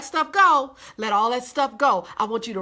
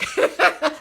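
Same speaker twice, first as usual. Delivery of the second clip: light laugh; 4 semitones higher, 3 dB louder than usual. Real, not acted. Laughs at own phrase.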